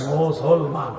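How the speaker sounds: "মুসলমান" in three separate drawn-out parts; split into syllables. Shown as a demonstration. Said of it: "তিনটে ভাগে ভাগ করা যায়".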